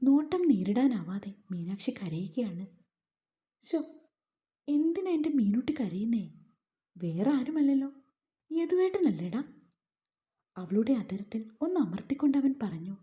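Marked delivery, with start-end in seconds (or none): 3.7-9.4 higher, sugary mocking coo over her tears; mock tenderness. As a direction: pretend to soothe her while sneering. Yadu mock-comforts crying wife. (കളിയാക്കുന്ന കപടവാത്സല്യം)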